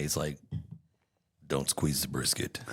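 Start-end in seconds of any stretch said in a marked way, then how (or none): 1.5-2.6 low robot giving barbecue advice; lightly voiced Terminator. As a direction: drop it low, a hint of robot killer. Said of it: "what is your robot gonna say".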